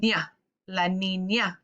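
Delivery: ña said clearly as nya, then la niña; ña pronounced. Shown as a demonstration. Teacher shows students how ña sounds, clear and careful. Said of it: "you say".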